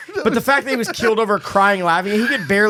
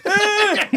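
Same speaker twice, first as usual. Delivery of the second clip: startled yelp; 13 semitones higher than usual. Acted. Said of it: "gonna be like".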